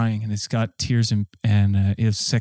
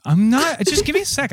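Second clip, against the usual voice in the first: pitched-up plea for a moment; a much higher protest asking for a second; flustered plea; 13 semitones higher than usual. Real, not acted. Heckled by friends mid-joke, he pleads in a high pitch. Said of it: "This joke fucking sucks".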